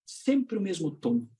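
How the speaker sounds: slow, low monotone; droning trainer. Retold or imitated. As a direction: drag it out on one tone. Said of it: "Aquele treinador que tem voz de abajur".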